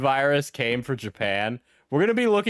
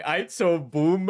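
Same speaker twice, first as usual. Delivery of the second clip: slow, slightly higher mock slang; imitating a switch-up; 4 semitones higher, slower than usual. Mocking the YouTuber's sudden switch, slow swagger. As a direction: drawl it like a swaggering teacher switching gears. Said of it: "him switching up and going".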